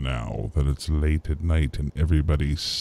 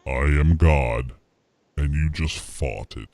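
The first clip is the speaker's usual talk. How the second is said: mock biblical prophet. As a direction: pronounce judgment gravely. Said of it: "In that, in that voice".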